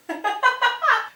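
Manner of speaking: high-pitched mock cackle; imitated dying laughter. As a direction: act out helpless laughter at a friend. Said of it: "just dying of laughter behind him".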